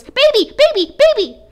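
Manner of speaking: very high, loud frantic repeats; panicked squawk. Acted. Kenku boy alarmed about the birth, high frantic squawking. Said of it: "Kenku boy goes".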